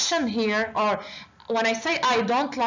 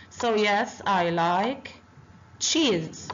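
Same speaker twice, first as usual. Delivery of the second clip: model answer; much slower than usual. Shown as a demonstration. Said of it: "Whatever you like".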